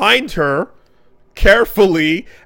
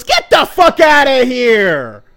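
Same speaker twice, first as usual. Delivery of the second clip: slow, loud, higher furious yell; hammed-up Naruto banishing her; mock outraged banishing; 5 semitones higher, 6 dB louder, much slower than usual. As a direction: drive her out with hammed-up fury. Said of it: "and he goes".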